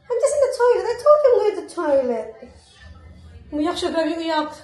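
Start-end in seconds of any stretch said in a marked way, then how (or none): 0.1-2.3 high-pitched re-enacted protest, easing down at the end; raised-voice retelling, breaking toward amusement; retold explanation to child. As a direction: act out explaining yourself to a crying child. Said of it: "Sabi ko".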